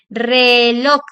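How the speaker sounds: Reloj loud and stretched, weight on LOJ; stress on last syllable. Shown as a demonstration. Teacher letting students hear the stronger accent, stress on LOJ in Reloj. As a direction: draw out Reloj and hit "loj" hard. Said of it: "vamos a escuchar el acento más fuerte".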